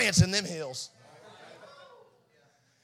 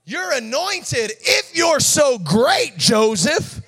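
mocking taunt; 4 semitones higher, 3 dB louder, slower than usual. Sarcastic taunting reply.

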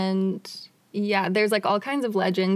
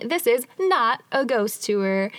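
slow, with "not" set apart; all-caps emphasis; slower than usual. Retold or imitated. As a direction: lean on "not" as if it were capitalised. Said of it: "they put in all caps".

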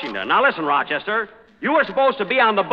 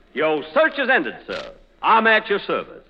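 a light, gallant hint of Southern accent. Jack auditions a gentle Southern accent for the director. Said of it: "How does that sound?".

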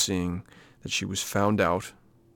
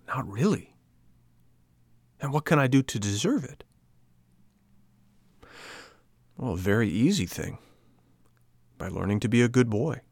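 put-on a touch of a pouting boy; boy puppet. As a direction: puppet arguing with the fairy about being good. Pinocchio's voice in dialogue.

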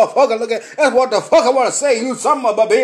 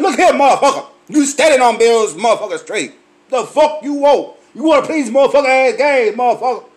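mock angry retort; 2 semitones higher, 3 dB louder than usual. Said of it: "I'm saying".

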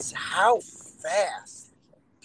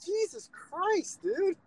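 exasperated sigh; 12 semitones higher, 4 dB quieter, much slower than usual. Real, not acted. Exasperated at online outrage.

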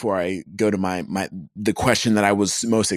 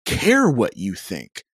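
mock yell into the void; 8 semitones higher than usual. Violist answering online critics of their Bach, exasperated mock yell. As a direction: vent it high, stopping short of a real yell. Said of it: "I just wanna yell into the void and say".

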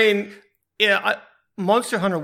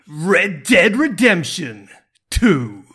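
announcer voice; 4 dB louder, much slower than usual. Pretend. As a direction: announce it like a gala host. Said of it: "show how it's done".

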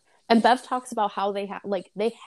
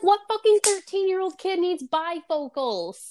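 incredulous laughing; 9 semitones higher than usual. Retold or imitated. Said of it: "I was like".

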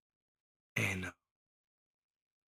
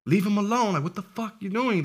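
shouting down the bully in class, pitched up; drunken yell at a bully; 8 semitones higher than usual. Retold or imitated. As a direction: yell it, tequila talking.

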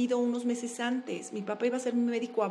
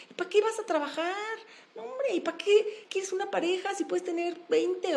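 a lightly voiced mocking mind, pitched higher from the third line on; tempting inner voice; 4 semitones higher than usual. Her own mind mocking her effort, in a lightly higher teasing voice. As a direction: needle yourself like a lazy little devil on your shoulder. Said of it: "Y aparte empieza a decirte".

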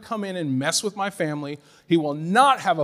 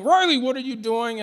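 high-pitched mock yell; mild re-enacted holler; retold yelling; 7 semitones higher than usual. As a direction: imitate an upset parent calling out. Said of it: "Stacy's over there yelling".

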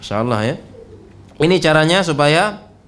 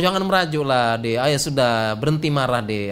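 lightly acted soothing, dropping lower; mock coaxing; 5 semitones lower than usual. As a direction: play at cajoling a sulky wife. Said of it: "Suami yang bujuk kan?".

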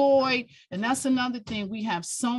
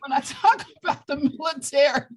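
louder, higher, half laughing through real tears; tearful laughing; 5 semitones higher, 4 dB louder, faster than usual. Real, not acted. Guest crying on air about military service, tearful and louder. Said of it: "I'm sitting here crying".

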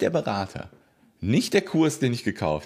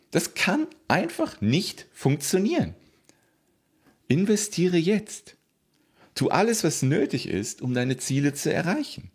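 booming motivational speech; 5 semitones higher than usual. Real, not acted. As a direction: drive it home with force. Urging viewers to invest.

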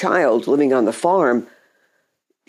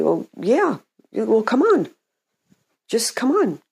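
higher, casual matter-of-fact reply; 8 semitones higher than usual. Retold or imitated. The Lord answers Peter out on the water, matter-of-fact. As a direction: toss it off as an easy, obvious invitation. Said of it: "in a very matter-of-fact way".

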